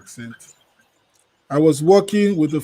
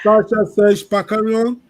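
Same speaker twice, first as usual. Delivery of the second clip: French accent; 4 semitones higher than usual. Shown as a demonstration. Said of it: "let me make an effort".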